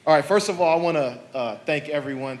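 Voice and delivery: loud coach voice to the room; barking gym coach. Acted. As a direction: address them like a team coach. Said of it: "so I'll use my coach's voice".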